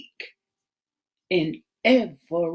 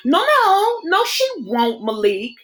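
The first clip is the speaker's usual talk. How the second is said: higher female voice, earnest and pleading; higher, earnest friend begging him not to talk that way; Rashida, pleading; 3 semitones higher, 3 dB louder than usual. Acted. Rashida's voice in story.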